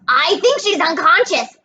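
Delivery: high, hopeful holler; yelled from above. A narrator's reading. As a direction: call it out high to friends below. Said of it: "Grover yelled somewhere above us".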